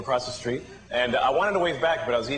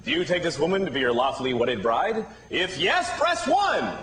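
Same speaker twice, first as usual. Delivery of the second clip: automated phone menu. Acted. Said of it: "this is a wedding in the year two thousand".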